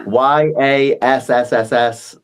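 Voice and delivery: "Y A S S S S" with a long hissed s; drawn-out s like a snake. Shown as a demonstration. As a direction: stretch the s in "Y A S S S S" slowly. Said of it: "as many S's as you want".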